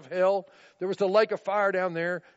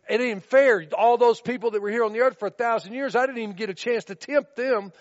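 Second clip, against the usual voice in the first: Satan complaining; 4 semitones higher, 5 dB louder than usual. Retold or imitated. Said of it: "stand before him and say".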